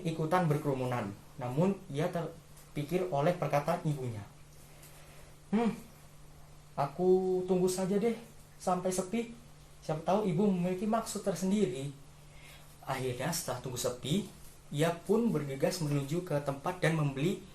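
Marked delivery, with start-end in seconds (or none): 5.5-11.9 lightly voiced child, pitched higher; pondering child. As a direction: think aloud as a hesitant child. Child thinks aloud in the story.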